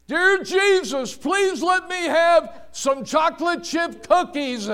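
high, loud mock child's plea; crying out in prayer. Little boy standing in the cart praying for cookies, crying out. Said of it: "and cried out".

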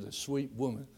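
ordinary delivery

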